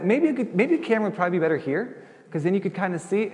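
high, fast faux-helpful advice; mock helpful suggestion. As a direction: play the overly helpful neighbor.

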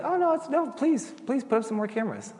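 high, sing-song fake helpfulness; mock eager politeness. Pastor needling camera-obsessed neighbor, high fake eagerness. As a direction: gush it up to needle him.

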